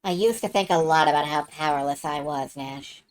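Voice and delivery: low, subdued heroine's confession; Mia confiding. Acted. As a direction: admit a weakness, dropping away at the end. Player voices Mia confiding.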